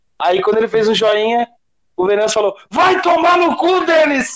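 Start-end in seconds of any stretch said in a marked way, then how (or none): 2.7-4.4 put-on very high, stretched-out, drawn-out yell. Retelling what someone yelled at a man who gave a thumbs-up, imitating someone shouting. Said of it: "gritando mesmo".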